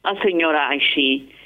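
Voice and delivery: reading a folk tale aloud, lightly acted; story narration. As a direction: tell the old family story to listeners. Reads a Haketia story aloud.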